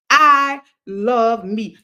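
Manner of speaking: slow, loud and full; with your chest. Shown as a demonstration. Host to live viewers, slow and chest-loud. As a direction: say it from the chest, every word slow. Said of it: "say it with your chest".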